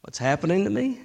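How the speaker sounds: soft, pleading inner voice; half-voiced secret prayer of doubt; inner plea. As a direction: hush it like a private thought to God. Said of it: "But you're thinking".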